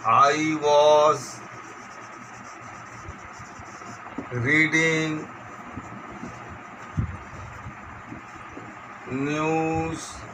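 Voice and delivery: slow word-by-word dictation; measured classroom dictation. Shown as a demonstration. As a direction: dictate with long gaps, each word drawn out level. Dictates exercise sentence.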